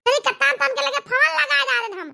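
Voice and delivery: laughing complaint. Acted. Telling of son ignoring calls.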